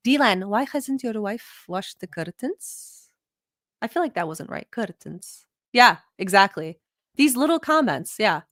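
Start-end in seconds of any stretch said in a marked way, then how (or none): 0.1-3.1 slow, drawn-out auntie reproach, lightly voiced; judgemental auntie. Auntie scolding Dylan about his wife's housework, slow mock judgement. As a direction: drag it out like a nosy aunt. Aunt voice mocking wife.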